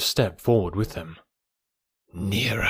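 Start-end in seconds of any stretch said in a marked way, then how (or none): 2.1-2.7 drawn-out snake hiss; Kaa. A narrator's reading. Python luring the monkeys closer, hissed. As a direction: hiss the word slowly, hypnotically. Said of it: "hissed Kaa".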